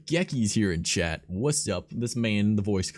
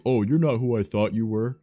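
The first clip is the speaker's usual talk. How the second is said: louder, put-on sheepish voice; imitating the attacker; 4 semitones higher, 7 dB louder than usual. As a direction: play the guy backing off. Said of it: "he's like".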